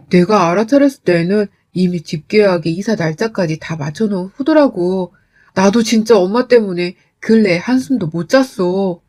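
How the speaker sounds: lightly voiced husband pleading his case; mildly defensive, placating account. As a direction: explain yourself to soothe your wife. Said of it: "저를 위로하고 달래려고 했지만".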